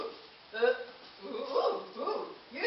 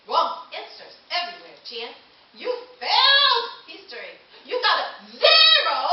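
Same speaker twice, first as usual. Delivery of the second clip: higher, louder laughing taunt; gloating taunt; 4 semitones higher, 6 dB louder than usual. Acted. Caveman mocking Jen's failed test, gleeful laughing taunt. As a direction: rub it in with glee.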